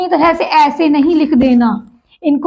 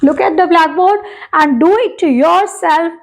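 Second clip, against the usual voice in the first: slow instruction; much slower than usual. Shown as a demonstration. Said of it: "teacher instruction".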